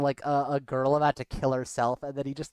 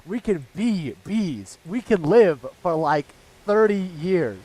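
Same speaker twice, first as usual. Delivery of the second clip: slow, drawn-out meme voice; Invincible meme voice; 3 semitones higher, 4 dB louder, slower than usual. Retold or imitated. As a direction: deliver it slow and dramatic. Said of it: "meme of the stupid fucking".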